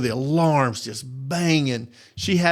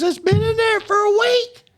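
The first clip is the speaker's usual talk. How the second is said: a higher voice for the customer's casual reply; quoting the customer; 3 dB louder than usual. Retold or imitated. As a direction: lift into a higher voice as the unbothered homeowner. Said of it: "She says".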